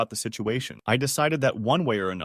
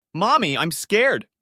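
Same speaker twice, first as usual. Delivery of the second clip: put-on high, slow, scared child voice; a frightened little boy calling his mother; Lucas; 8 semitones higher, 5 dB louder, slower than usual. A narrator's reading. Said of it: "said Lucas".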